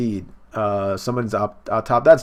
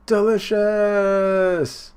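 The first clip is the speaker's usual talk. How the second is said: high, louder, very slow drawn-out delicious; monstrous savouring; 9 semitones higher, 5 dB louder, much slower than usual. Retold or imitated. Big Mom tasting the croquembouche, slow monstrous relish. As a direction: savour every syllable like a giant.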